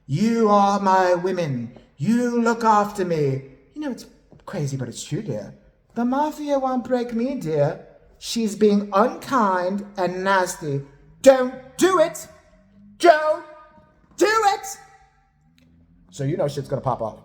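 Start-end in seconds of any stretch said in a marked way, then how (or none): 0.1-3.4 imitated boss. Kim imitating the mafia leader. 5.9-14.7 slow, hammed-up warning, climbing higher; imitated defiance. Kim complaining in the diary room, slow imitated indignation.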